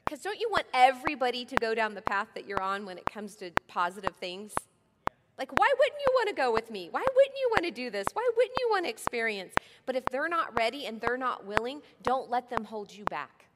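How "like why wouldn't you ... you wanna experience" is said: higher, louder pleading questions; rising exasperated why. Retold or imitated. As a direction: plead with those who won't come. Voicing frustrated pleading questions.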